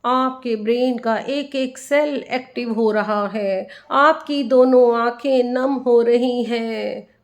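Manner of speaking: unhurried meditation guide, leaving space after each instruction; guided meditation. Acted. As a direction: lead listeners inward, phrase by phrase, letting the endings stretch.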